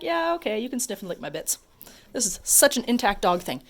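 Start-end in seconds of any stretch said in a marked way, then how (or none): 0.0-1.6 voicing dog. Voicing the dog's thoughts.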